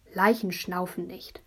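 slow, dry, unimpressed; dry matter-of-fact. Acted. Older sibling dismissing the panic, dry. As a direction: state it coolly. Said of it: "Quatsch, hat Petja gesagt".

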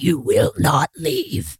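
slow, firm command; stern demand. Retold or imitated. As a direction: lay down the law slowly. Demanding in conflict.

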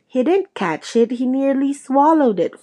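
a touch of angry howling; howling protest. Acted. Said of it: "Flint was still howling".

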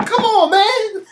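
high, loud, drawn-out hammed-up plea; cranky old man yell. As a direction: whine it at the top of your voice. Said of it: "He said".

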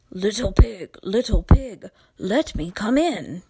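loud, booming wolf at the door. Acted. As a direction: call out like a big bad wolf.

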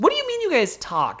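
shocked high Gwen voice. Retold or imitated. Retelling Gwen's reaction to Gabe, high and incredulous. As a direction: pitch way up, disbelieving.

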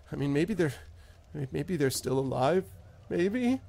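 a hint of a stammering, grief-struck farmer; lightly voiced farmer; halting farmer. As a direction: stutter through it, barely holding together. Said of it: "and he says".

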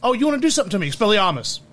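put-on light British accent on Expelliarmus. To the hosts, listing a favourite spell: light British accent. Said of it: "saying it with the British accent".

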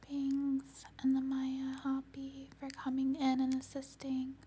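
gently ground them back; warm serene goddess voice. Acted. Closing guidance.

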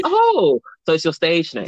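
high, slow surprised realisation. Retold or imitated. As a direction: play it as a sudden dawning surprise. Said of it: "I was like".

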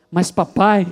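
put-on child pleading. Little son reaching out his hand begging his father. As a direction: beg your father for help. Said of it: "e disse".

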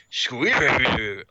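lightly voiced puppet, word mangled; puppet mangling a word. Puppet still can't say squirrel, lightly voiced puppet. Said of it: "they try to get him to say squirrel".

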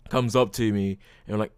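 usual speaking voice

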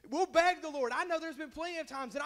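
lifts high and loud on the beg; preaching cry. Real, not acted. Preacher pleading out loud to his church, loud and high. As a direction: cry it out to the congregation.

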